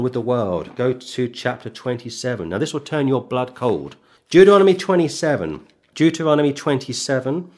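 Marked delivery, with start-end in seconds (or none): 4.3-5.7 louder and higher, ringing call; emphatic announcement. Acted. Preacher calling his flock to the next chapter, emphatic and louder. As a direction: proclaim the chapter to the whole hall.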